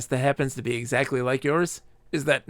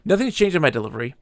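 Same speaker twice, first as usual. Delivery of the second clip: rushed repeat; 4 dB louder, much faster than usual. Shown as a demonstration. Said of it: "I am not following the zone line".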